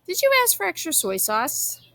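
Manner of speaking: voiced high, a touch fussy; lightly voiced fussy old man asking; old man pestering his daughter, a touch fussy; fussy old grandfather. A narrator's reading. Grandfather fussing about soy sauce.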